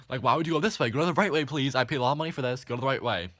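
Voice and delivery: imagined protest. Pretend.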